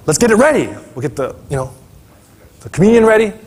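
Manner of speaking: eager Martha rushing about; busy Martha. Retold or imitated. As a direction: rattle off the to-do list like a frazzled host. Martha bustling to prepare for Jesus.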